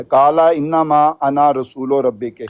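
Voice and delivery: slow, drawn-out Arabic recitation; تلاوت کے انداز میں آہستہ; Quran recitation. Shown as a demonstration. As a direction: recite the verse slowly, stretching انما. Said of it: "اب دوسرا بتا دو".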